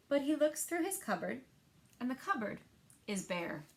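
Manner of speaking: put-on lively read-aloud for young children; story narration. A narrator's reading. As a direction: tell it like story time at the library. Librarian reads picture book aloud.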